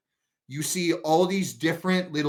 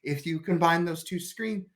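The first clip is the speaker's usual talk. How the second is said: hesitant, halting explanation with a touch of nerves; mildly flustered in-character explaining; shaky voice; 4 dB quieter than usual. Acted. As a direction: stammer through a nervous explanation. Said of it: "voice is so shaky".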